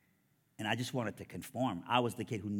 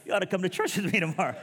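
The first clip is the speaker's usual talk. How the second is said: high, loud, comically strained stoner voice; pot-smoker imitation; 9 semitones higher, 8 dB louder, faster than usual. Buddy inviting him to church while passing a joint, mock stoner voice. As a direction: squeeze it out as if holding in a toke. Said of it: "handing me a joint while he's inviting me".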